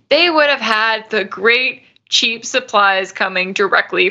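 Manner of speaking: 「cheap」を強調して; cheapという語に力を込めて; stress on cheap. Shown as a demonstration. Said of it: "I emphasize the word cheap".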